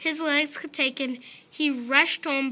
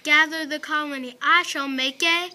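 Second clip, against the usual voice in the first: a hint of a grand old king; heroic regal voice; 3 semitones higher, 3 dB louder than usual. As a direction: proclaim it lightly like royalty. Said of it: "he said in a heroic, regal voice".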